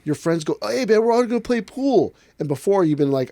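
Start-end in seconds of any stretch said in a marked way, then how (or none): 0.6-2.1 higher, louder buddy call. Retold or imitated. Friends voiced calling.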